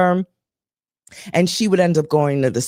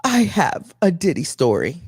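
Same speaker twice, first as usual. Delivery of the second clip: lightly voiced friend, eager; a hint of the friend's eager tone; friend's eager confession. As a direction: say it like a big reveal. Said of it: "And she goes".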